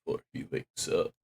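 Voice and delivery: whisper. Real, not acted. Echoing the creepy audio log.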